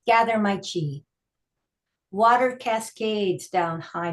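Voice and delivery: deliberate recital, pausing between images; poetry reading. Acted. Poet performs tai chi sestina for listeners, measured recital. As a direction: recite each line as its own image.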